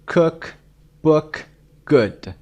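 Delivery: "cook, book, good" with short, lax oo; short OO vowel. Shown as a demonstration. Teacher drilling the short vowel, "cook, book, good" said briefly. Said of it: "صدای او کوتاه هست".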